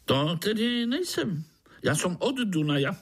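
sing-song jolly insect; chatty foreign mosquito; mosquito Pišta. Acted.

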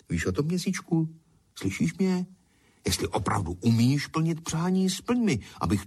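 high hushed plea to the moon; wishing to the moon. Acted. Potter pleads with the moon, high and hushed.

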